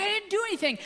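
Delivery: put-on high whiny child's protest; mock sobbing denial. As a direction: imitate a tearful kid denying it. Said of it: "like, sobbing".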